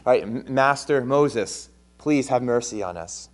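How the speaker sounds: grovel before Master Moses, a little hammed up; a mock-humble plea, lightly played for a laugh; mock humble pleading. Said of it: "And now he says".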